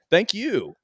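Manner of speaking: robotic thank you. Retold or imitated. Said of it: "the thing's like".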